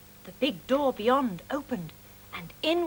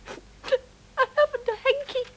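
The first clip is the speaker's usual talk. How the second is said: slow, higher, tearful voice; crying; 12 semitones higher, 4 dB louder, slower than usual. Acted. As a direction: sniffle through it like a weepy child. Crying monster has no hanky.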